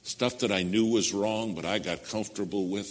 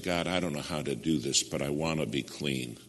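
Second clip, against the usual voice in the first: retold humble prayer; 5 semitones lower, 4 dB quieter than usual. Retold prayer on his knees.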